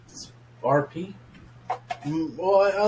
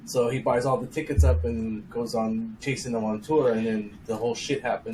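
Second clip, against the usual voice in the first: banging the desk. Real, not acted. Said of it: "but quit hitting the desk".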